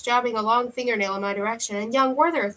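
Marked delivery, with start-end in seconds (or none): 1.8-2.5 leering. Acted. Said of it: "leered the second".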